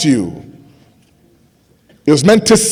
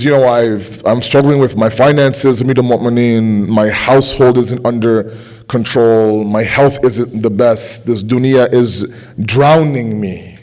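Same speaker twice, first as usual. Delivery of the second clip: weary complaining; 6 semitones lower than usual. Acted. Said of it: "begins to complain about his state".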